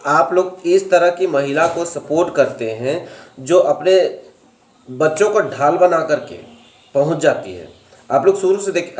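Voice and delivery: ordinary talk, nothing marked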